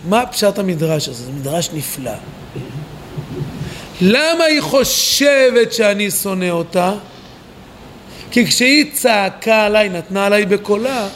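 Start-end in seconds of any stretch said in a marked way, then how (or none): 4.0-6.9 slow, drawn-out puzzled question; slowly wondering aloud. Acted. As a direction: stretch the words out, asking why. Reading the midrash as puzzled complaint.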